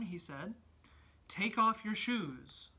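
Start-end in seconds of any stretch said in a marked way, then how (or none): 1.3-2.7 thundering voice. Acted. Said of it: "the voice thundered".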